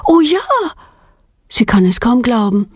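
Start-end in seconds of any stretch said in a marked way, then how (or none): 0.1-0.4 high, joyful exclamation; delighted. A narrator's reading. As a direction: burst out with joy, high. Girl delighted at offer.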